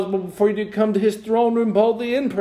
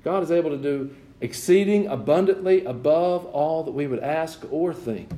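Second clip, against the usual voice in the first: measured, emphatic scripture quote; unhurried preacher's recital, easing down at the end; deliberate verse proclamation. Real, not acted. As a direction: proclaim the verse, letting each phrase land. Proclaims the verse after checking.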